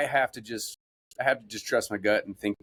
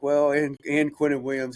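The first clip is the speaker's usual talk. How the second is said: put-on kid voice; 5 semitones higher than usual. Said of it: "he's like".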